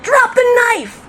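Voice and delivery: high, loud police order; yelled command. Retold or imitated. Officer to burglar with knife, yelled command. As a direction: shout it as an urgent order. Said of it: "so then I yelled".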